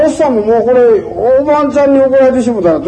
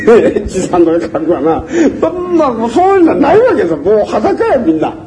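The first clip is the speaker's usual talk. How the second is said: laughing. Real, not acted. Laughing while joking about names.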